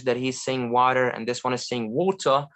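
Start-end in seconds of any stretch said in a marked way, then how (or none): 0.4-1.1 American pronunciation of "water"; American accent. Shown as a demonstration. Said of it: "difference between American and British". 1.7-2.5 British "water", no R at the end; British accent. Shown as a demonstration. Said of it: "difference between American and British".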